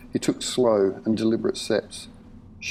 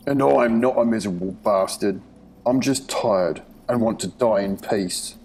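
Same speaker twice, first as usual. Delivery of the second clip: put-on weary old man. Herbert's weary voice.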